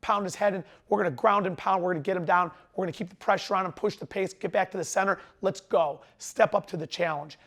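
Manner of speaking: lightly voiced wrestler urging himself on; a hint of mat-side hype; wrestling voice. Shown as a demonstration. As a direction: pump up a teammate in short bursts. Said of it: "That's my wrestling voice".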